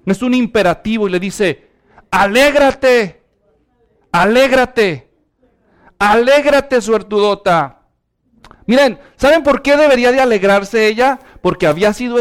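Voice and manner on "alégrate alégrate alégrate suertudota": commanding. Pretend. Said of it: "y es una orden".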